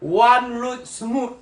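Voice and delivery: "one road smooth" said slowly, word by word in Chinglish; mock English calque. Shown as a demonstration. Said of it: "一路好走".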